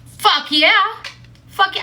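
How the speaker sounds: high, loud cheer; thrilled, pitch jumping up; excited agreement. Retold or imitated. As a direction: whoop it out eagerly. Eager reaction to day drinking offer.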